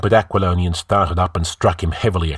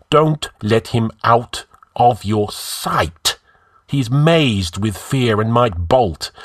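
raised, commanding orders; peremptory orders; 5 semitones higher, 4 dB louder than usual. Acted. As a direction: give orders briskly. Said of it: "changed his tone peremptorily".

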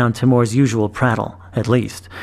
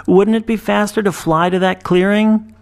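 called out; 8 semitones higher than usual. A narrator's reading. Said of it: "Draco called".

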